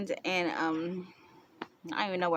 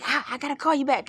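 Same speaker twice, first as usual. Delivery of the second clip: flustered mom; 7 semitones higher, 6 dB louder, faster than usual. Retold or imitated. Mom hanging up phone.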